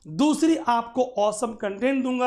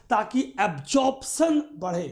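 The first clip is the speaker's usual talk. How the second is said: ordinary delivery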